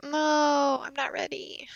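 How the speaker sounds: breathy whisper, not ready; whispered dread. Real, not acted. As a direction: whisper it, anxious. Dreading the finale.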